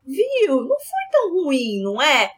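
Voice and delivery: sweet sing-song reassurance. Retold or imitated. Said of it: "a anestesista falou".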